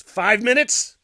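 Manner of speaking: loud, high rising disbelief; incredulous question. Real, not acted. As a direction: throw it out as an exasperated guess. Incredulous at how long he knocked.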